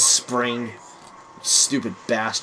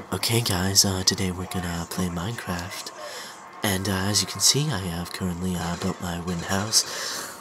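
tag; 7 semitones lower, 8 dB quieter than usual. Retold or imitated. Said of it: "they're like".

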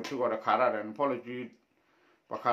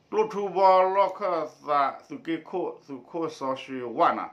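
raised, projected read-aloud voice; 5 semitones higher, 6 dB louder than usual. Acted. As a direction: read the text out to a class in phrases. Reads a text aloud.

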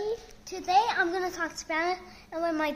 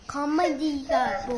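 fake Spanish word; 7 dB louder than usual. Shown as a demonstration. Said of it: "This is how I say blue in Spanish".

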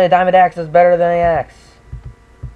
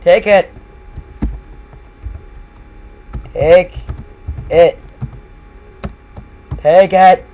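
insistent shout; 2 semitones higher, slower than usual. Acted. Pushing gift on player.

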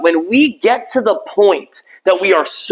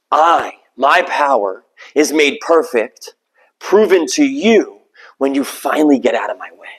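voice of the Lord; 4 semitones lower than usual. Acted. Quoting God again, slowly.

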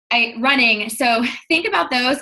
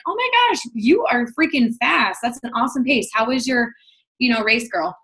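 gushing praise; 3 semitones higher than usual. Pretend. Commenting on a runner's post, gushing and excited. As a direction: gush over a stranger's fast race.

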